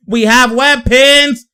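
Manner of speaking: slow, high, laughing brag; bragging about the team, laughing and slow; laughing hype. Real, not acted. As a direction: crow it through a laugh.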